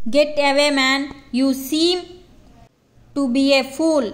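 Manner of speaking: a hint of a gruff railway official brushing him off; mildly contemptuous English dismissal; narrator's light mock of a rude ticket collector; lightly voiced rude official. Official shoos off the traveller.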